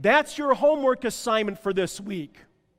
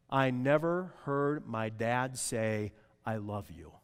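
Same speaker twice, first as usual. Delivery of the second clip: hushed sad quote; 7 semitones lower, 4 dB quieter, slower than usual. Retold or imitated. Quoting hurt adults, dropping soft.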